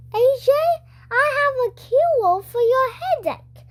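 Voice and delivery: a cheery school nurse asking; lightly voiced friendly nurse; Missus Cooney voice. A narrator's reading.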